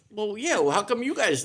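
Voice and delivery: put-on high, puzzled little-boy reply; surprised kid. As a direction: play it as if it is obvious. Young Bill, surprised back.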